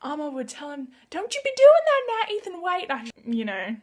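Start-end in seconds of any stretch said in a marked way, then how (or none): 1.1-2.9 loud, high Southern US scolding; hammed-up Southern accent, pitched way up. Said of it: "with this southern accent".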